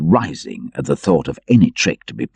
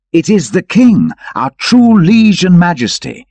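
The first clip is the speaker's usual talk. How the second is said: much higher and louder, awed exclamation; excited cry; 12 semitones higher, 6 dB louder than usual. Acted. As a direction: cry out in joyful recognition. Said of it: "cried Richard of Lee".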